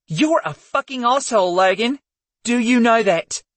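high, venomous insult. Acted. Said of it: "Her words were venomous".

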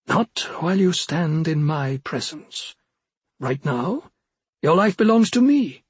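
high, cold threatening witch; menacing witch voice. Acted.

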